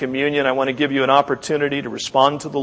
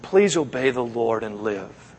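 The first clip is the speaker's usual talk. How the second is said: pleading. Retold or imitated. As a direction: gently beg him to obey. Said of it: "as Jeremiah said to the king".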